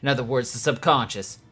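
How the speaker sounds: light southern twang on an NPC read. Acted. Reading Philippe's lines aloud, faint southern twang. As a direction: read the character with a hint of a southern accent. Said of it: "suddenly got a very heavy southern twang".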